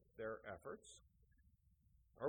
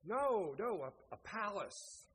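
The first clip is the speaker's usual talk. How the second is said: higher, insistent storyteller's wife; arguing wife; 7 semitones higher, 6 dB louder than usual. Acted. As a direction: overrule the husband, starting loud. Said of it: "to argue about what".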